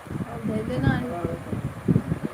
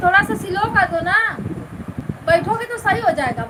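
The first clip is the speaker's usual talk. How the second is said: urgent plea; 5 semitones higher, 4 dB louder, faster than usual. Real, not acted. Asking the others to slow down.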